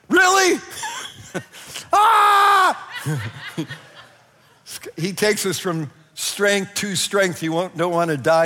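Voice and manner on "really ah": laughing disbelief. Real, not acted. Laughing at own story.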